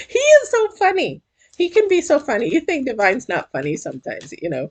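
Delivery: high, laughing squeal settling down; real amusement. Real, not acted. Reader amused by Divine's joke, high laughing voice. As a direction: crack up, voice shooting up high.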